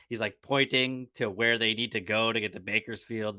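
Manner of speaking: ordinary talk, nothing marked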